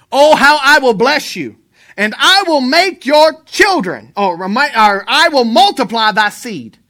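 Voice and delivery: loud, punched-out sermon voice; full-force preaching. Real, not acted. Preacher telling the church God will multiply, forceful preaching. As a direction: press the promise on the listeners.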